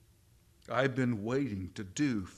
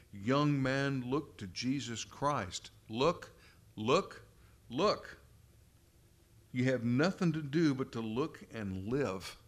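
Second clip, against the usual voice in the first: preacher's shout; 2 semitones higher than usual. Retold or imitated. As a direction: call out to the young man like a lay preacher. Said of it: "he shouted, as only a primitive Methodist could do".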